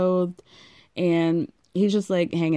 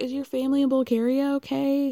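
tearful, pitched-up voice on the edge of crying; 7 semitones higher than usual. Retelling a woman's tearful FaceTime call: imitating someone crying. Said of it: "Then she starts crying".

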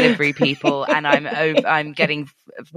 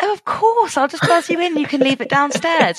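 very high, quick, sugary-polite voice; 12 semitones higher than usual. Telling how she answers the door buzzer, retelling her own polite reply. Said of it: "I go".

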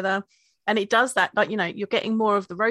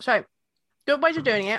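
speaking with a full mouth, higher pitch; 4 semitones higher than usual. Tasting chocolate with beer, asked how to eat it, talking with mouth full of chocolate. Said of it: "I've just put chocolate in my mouth".

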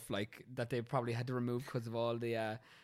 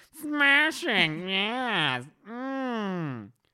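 very high, loud, swooping, stretched "mm"; 10 semitones higher, 10 dB louder than usual. Speaker telling a story, doing his Nigel Thornberry impression. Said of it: "my Nigel Thornberry impression".

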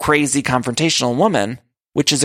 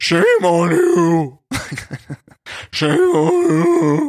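very slow, boozy, scolding drawl with you dragged out; 4 semitones higher than usual. Recounting a woman's line from a show, copying how she said it: imitating her drunk voice. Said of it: "different kind of drunk voice".

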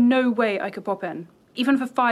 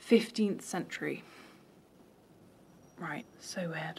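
hushed, deflated, disappointed whispered murmur; 6 semitones lower, 13 dB quieter than usual. Told the burial dates to the 15th century, repeating it back, disappointed. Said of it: "You sound disappointed".

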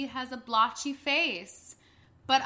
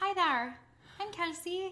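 put-on Irish accent, pitched up; 5 semitones higher, 7 dB quieter than usual. Retelling a third-grade classmate from Ireland: Kelsey's Irish accent. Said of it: "Let me get Irish".

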